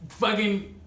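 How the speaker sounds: laughing, high-pitched subscribe plea; excited plea. Real, not acted. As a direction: pump the viewers up to hit subscribe. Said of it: "hyped plea to subscribe".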